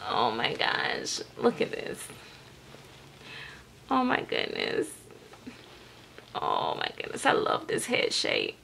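very soft, whispery admiration; barely voiced, adoring hush; hushed awe. Real, not acted. Hushed admiring of the calm baby.

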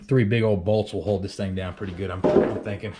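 talking while catching breath; winded, breathing between words. Real, not acted. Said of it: "Get my breath back".

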